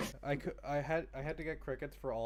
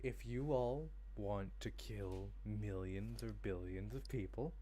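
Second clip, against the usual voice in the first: villain monologue voice; 3 semitones lower, slower than usual. Acted. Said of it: "oh, you want me to villain monologue".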